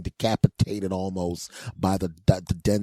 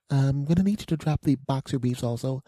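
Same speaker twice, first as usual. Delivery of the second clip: put-on higher doctor voice; imitated female doctor; 6 semitones higher than usual. Doctor tells the patient to undress further, imitated high voice. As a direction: make a polite, high-pitched clinical request.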